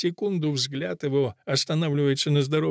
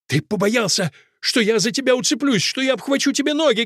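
accusing cry, climbing higher; Fusia; 8 semitones higher than usual. A narrator's reading. Fusia accuses Akelina of being afraid, crying out. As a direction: accuse him in a high outcry. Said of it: "кричит Фуся".

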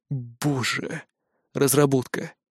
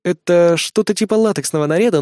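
usual speaking voice

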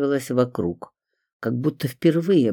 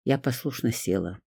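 usual speaking voice

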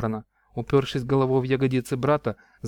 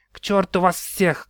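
slow, higher, scornful outburst; defiant shout; 5 semitones higher than usual. Acted. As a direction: spit it out and turn away. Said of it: "крикнул Тиарион".

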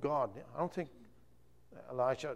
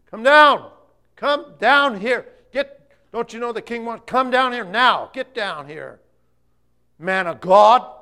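loud, high shouting up a hill; soldiers' shout; 8 semitones higher, 16 dB louder, slower than usual. Acted. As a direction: bark an order up the mountain. Captains shouting up the mountain.

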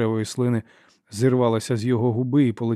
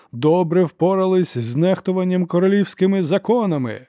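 higher and louder accusation; rising fury; 7 semitones higher, 4 dB louder than usual. A narrator's reading. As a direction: hammer the charge home. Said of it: "гримаса люті".

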